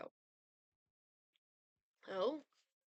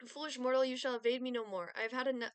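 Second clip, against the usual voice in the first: louder, menacing Grim Reaper voice; cold rasping evil emperor; 4 semitones higher, 6 dB louder than usual. Acted. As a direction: boom it out like death itself. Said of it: "Grim Reaper".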